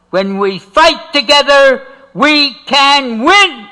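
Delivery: stirring the crowd as Fannie Lou Hamer did; rousing rally cry. Retold or imitated. Quoting the leader's call to stand together, slow and rising. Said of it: "She would say".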